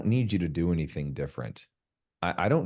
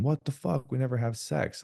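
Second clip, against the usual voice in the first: mock frustrated outburst; 9 semitones higher than usual. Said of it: "Instead of me being".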